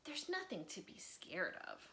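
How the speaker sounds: whispered comfort to a teddy; hushed reassuring child; soft reassurance. Acted. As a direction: gently soothe the bear. George reassures bear.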